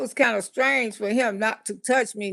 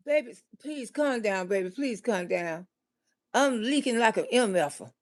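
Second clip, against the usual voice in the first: hushed pleading; 3 semitones lower, 7 dB quieter than usual. Retold or imitated. Boyfriend pleading while confessing.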